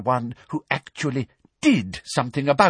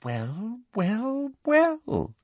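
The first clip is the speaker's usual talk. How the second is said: smug villain's slow-building delight; triumphant; much slower than usual. A narrator's reading. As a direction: savour each word, climbing in pitch. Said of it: "looking triumphant".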